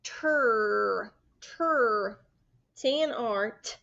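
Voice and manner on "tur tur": stretched tur, holding the R; drawn-out blend tur; blend sound tur. Shown as a demonstration. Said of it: "together says".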